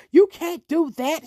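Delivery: mildly nasty imitation, drawn out; nasty scolding. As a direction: retell a neighbour's nasty telling-off, slowly. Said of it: "She was very nasty".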